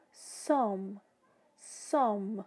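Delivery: some with a silent final e, lips closing on m; English some. Shown as a demonstration. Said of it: "esse E é como se ele fosse mudo". (some com o E mudo, lábios fechando no M)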